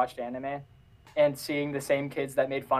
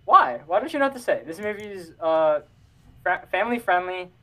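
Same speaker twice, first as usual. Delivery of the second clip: sarcastic; 4 semitones higher, 4 dB louder than usual. Acted. Sarcastic praise of Joker.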